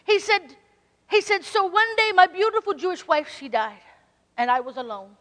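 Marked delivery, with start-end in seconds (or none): 1.4-5.2 imitating Hank. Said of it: "I'm gonna try to imitate Hank".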